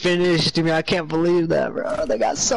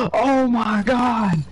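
excited shout; 2 semitones higher, much slower than usual. Real, not acted. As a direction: cheer out in disbelief. Gasp at teammate's clutch play.

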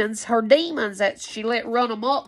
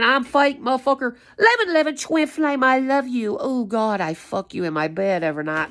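mocking her. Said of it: "she go around saying".

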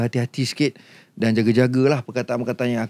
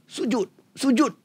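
kind voice; 8 semitones higher, 3 dB quieter than usual. Retold or imitated. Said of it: "ada suara baik mengatakan kepada aku".

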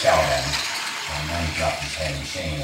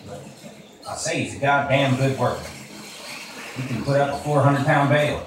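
louder, higher eager cutting in; speaking in loudly; 8 semitones higher, 5 dB louder than usual. Acted. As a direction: jump in to cover for Lenny. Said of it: "George spoke in loudly".

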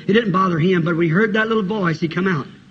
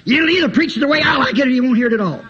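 stubborn demand; 4 semitones higher, much faster than usual. Acted. Mimics a stubborn churchgoer's demand.

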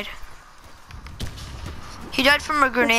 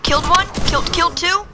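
excited; 6 semitones higher than usual. Real, not acted. Excited kill count.

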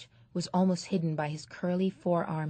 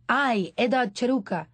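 louder, higher gravelly call just woken; gravelly sleepy voice; 6 semitones higher, 6 dB louder than usual. Acted. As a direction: bark at the boy, thick with sleep. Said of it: "in a gravelly voice thick with sleep".

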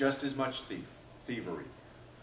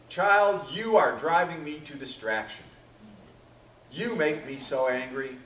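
exasperated parent; 4 dB louder than usual. Acted. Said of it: "your parents said that to you".

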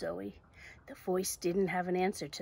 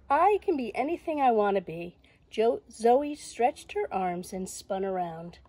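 loud, higher storybook heroine; exuberant Zoe; 5 semitones higher, 8 dB louder than usual. Acted. Zoe spinning around pretending to be a bird, exuberant. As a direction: proclaim it with excited, soaring energy. Reads Zoe's lines to children.

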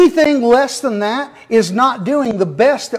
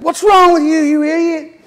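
retold yell at driver; 6 semitones higher than usual. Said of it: "he shook his fist at him and yelled".

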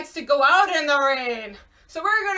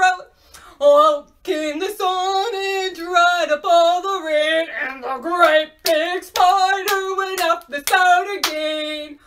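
a hint of a big spider, sung louder; 6 dB louder, much slower than usual. Shown as a demonstration. Teacher sings as the great big spider, mildly big and loud. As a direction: sing it big and booming for the kids. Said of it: "he has a really low voice like this".

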